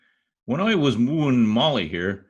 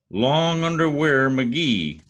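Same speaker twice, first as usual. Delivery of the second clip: boastful announcement; slower than usual. Acted. McGee's grand slow self-introduction.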